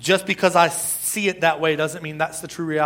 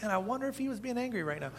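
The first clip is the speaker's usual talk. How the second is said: laughing; 6 semitones higher, 12 dB quieter, faster than usual. Retold or imitated. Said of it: "you'll be like".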